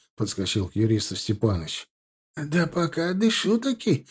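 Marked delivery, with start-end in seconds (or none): 2.4-4.1 slow, hoarse and higher, barely alive. A narrator's reading. Beaten lawyer rasps to his rescuer, hoarse and slow. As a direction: rasp it out after a beating. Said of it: "непривычным самому себе хриплым голосом".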